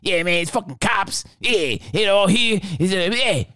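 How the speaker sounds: imitating dad's rant. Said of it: "my dad just went on a rant".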